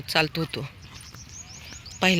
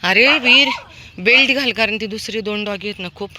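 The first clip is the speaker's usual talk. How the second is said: high, loud call to Veer; calling the dog; 5 semitones higher, 7 dB louder than usual. Real, not acted. Owner calls her dog Veer back from other dogs, high loud call.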